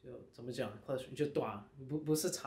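halting non-native Mandarin; foreigner speaking mandarin. Real, not acted. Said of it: "我的中文不太好".

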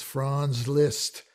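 "Franz Liszt" slowly, "Liszt" like "list"; soft S. Shown as a demonstration. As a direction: model "Liszt" with a soft S and no Z sound. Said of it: "the S becomes soft because".

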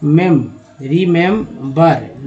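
मेम drawn out very slowly, then रिमेंबर; slow syllables. Shown as a demonstration. Teacher modelling remember for learners, very slow. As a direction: stretch मेम long before the whole word. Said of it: "रिमेंबर पढ़ेंगे".

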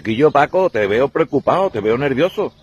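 high, fussing friend. Acted. Friend asking Paco why he seems nervous, high and fussy. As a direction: fret over Paco's nerves.

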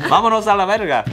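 put-on high sing-song Italian accent. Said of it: "I made it all Italian too".

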